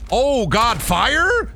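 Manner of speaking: delight at the fire gun; excited high yelp. Real, not acted. Excited by new flame gun.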